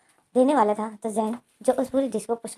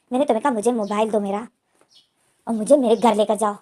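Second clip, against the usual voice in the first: a louder, insistent demand; raised demand; 5 dB louder than usual. Acted. Boss demanding his phone and home, loud. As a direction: push back hard, building louder.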